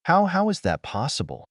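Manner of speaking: shocked. A narrator's reading. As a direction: stumble over the words in shock. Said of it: "That news shocked him".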